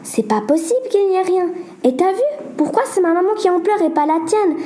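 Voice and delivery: pressing her friend, upset; worried girl. Acted. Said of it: "Sarah demanda".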